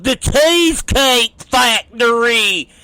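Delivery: a lightly voiced hillbilly, proudly naming the place. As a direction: say it like it's the fanciest spot on earth. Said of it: "He goes".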